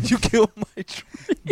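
slow, amused repeat through a laugh; laughing echo. Retold or imitated. Repeating his friend's line to Maven, amused and slow. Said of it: "echoing the line".

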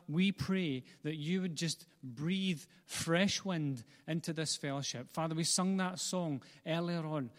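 earnest, measured church prayer; pleading prayer in rhythmic, building phrases; public prayer. Real, not acted. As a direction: lead the congregation in heartfelt prayer. Leads the congregation in prayer.

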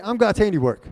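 high, loud wake-up call to a sleepy congregation; rousing shout. Shown as a demonstration. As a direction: shout it to get them repeating. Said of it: "Are you guys asleep?".

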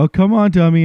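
bossy teasing; mock condescending. Nurses ordering the clueless husband, mock condescending. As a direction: talk down to him like a dummy. Staff mocking him as dummy.

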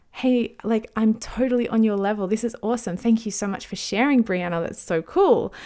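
lightly gushing, upbeat thanks; enthusiastic fan. Retold or imitated. Podcaster imagining thanking an article's writer, lightly gushing. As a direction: gush a little, like messaging someone you admire.

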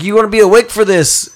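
sleazy movie guy. Retold or imitated. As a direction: lean in, sleazy. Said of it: "he's like".

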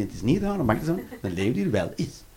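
"niet" snel en zacht gezegd; quick plain correction. Shown as a demonstration. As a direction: rush through the line softly. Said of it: "Dat is heel de zin". (snel en zacht uitgesproken)

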